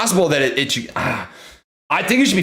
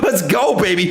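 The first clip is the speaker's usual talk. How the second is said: laughing cheer. Real, not acted. Laughing after new high.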